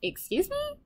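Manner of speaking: very high, rising disbelieving question; incredulous. Retold or imitated. Replaying her reaction to his package excuse, incredulous. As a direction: pitch it way up in mock disbelief.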